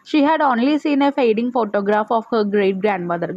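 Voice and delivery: slow, careful reading aloud; slow textbook reading. Shown as a demonstration. Teacher reading the lesson to pupils, slowly. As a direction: read each word out slowly for pupils.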